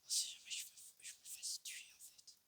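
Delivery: hushed whisper. Real, not acted. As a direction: keep it down, whispering. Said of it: "je vais être un peu moins excité".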